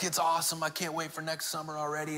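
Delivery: a hint of an excited kid, quiet; quietly voicing his son's glee; son voiced softly. Dad voices son on way home.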